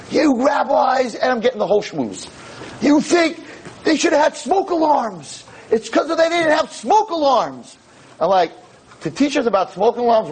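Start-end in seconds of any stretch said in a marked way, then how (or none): 0.1-1.1 angry accusation. Retold or imitated. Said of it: "this girl is just attacking me". 2.8-7.8 angry student. Retold or imitated. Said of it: "this girl is just attacking me".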